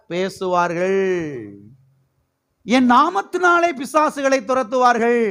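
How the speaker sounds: slow, ringing Bible reading; scripture proclamation. Real, not acted. Preacher reading Mark's gospel to the church, proclaiming slowly. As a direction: stretch each phrase out and proclaim it. Reads the Bible verse aloud.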